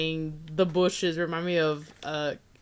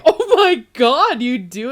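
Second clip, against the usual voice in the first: high, loud, laughing disbelief; mock shocked gasp; 4 semitones higher, 10 dB louder than usual. Retelling to friends the coworker's feud, squealing in laughing surprise. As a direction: squeal it like you can't believe it.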